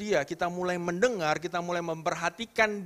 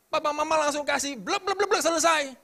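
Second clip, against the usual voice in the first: mocking; 11 semitones higher, 5 dB louder than usual. Mocking quick advice.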